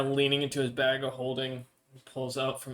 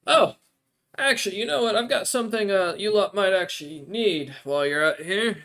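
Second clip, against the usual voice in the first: NPC voice; 6 semitones higher, 6 dB louder than usual. Acted. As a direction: lift into the odd creature's voice, grateful but hungry.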